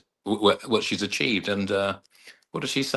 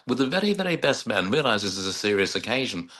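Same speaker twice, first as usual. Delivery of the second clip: put-on Jean Brodie accent. Officiant scolding two giggling men at a wedding, mild Jean Brodie accent. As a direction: mimic a prim reproof in Jean Brodie accent. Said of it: "in a Gene Brody accent".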